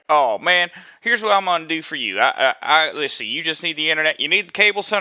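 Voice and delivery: lightly voiced Southern salesman accent; good old Southern boy. Cable salesman to a customer on the phone, light Southern accent. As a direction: put on an easygoing Southern accent. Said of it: "this good old Southern boy".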